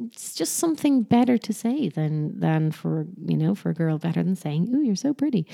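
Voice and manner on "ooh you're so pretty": higher, cooing mock admiration; mean, patronizing. Adult complimenting a little girl, patronizing. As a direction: talk down with a sugary compliment. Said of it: "I keep saying it in that really mean tone of voice".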